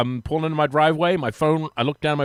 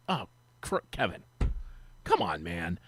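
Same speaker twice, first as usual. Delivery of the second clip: dismayed groan; 7 semitones lower, 9 dB quieter than usual. Retold or imitated. Retold dismayed reply to Kevin.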